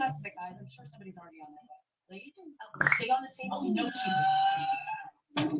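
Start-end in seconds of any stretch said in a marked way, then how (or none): 2.1-5.6 high, drawn-out shout; playful shout. Real, not acted. Calling to the ladies at the table, a long high shout. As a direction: stretch it out across the room.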